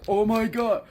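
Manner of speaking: high, loud, drawn-out hammed-up freak-out; comic high-pitched screech of alarm; mock panicked shout. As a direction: wail it in over-the-top disbelief. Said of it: "Eddie's like".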